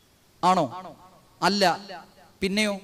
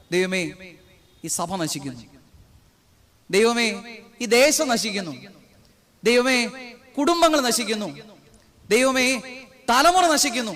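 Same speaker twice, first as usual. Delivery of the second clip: pleading prayer. Retold or imitated. A preacher voicing a weeping prayer for the church, rising from hushed to pleading. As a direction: cry out to God, building with every line. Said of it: "ഞാൻ കരയുക".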